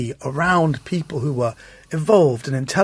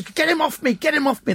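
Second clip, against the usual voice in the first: mock panicked scream; 13 semitones higher than usual. Servants in the car screaming in panic, very high mock squeal. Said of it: "the Filipino servants are screaming".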